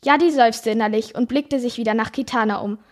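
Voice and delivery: reads the fantasy passage aloud, lightly voicing the animals; story narration. A narrator's reading. Host reading a book passage to her co-hosts, lively narration. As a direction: tell the tale to podcast listeners.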